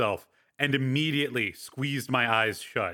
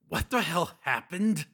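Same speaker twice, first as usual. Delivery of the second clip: weak, higher croak; 6 semitones higher than usual. Acted. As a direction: croak it out hoarsely. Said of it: "I managed to croak".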